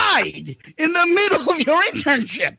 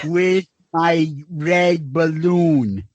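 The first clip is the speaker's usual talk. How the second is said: slow, lower lisping mock voice; Bob Kraft with a lisp; 6 semitones lower, much slower than usual. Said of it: "He talked like Bob Kraft with a lisp".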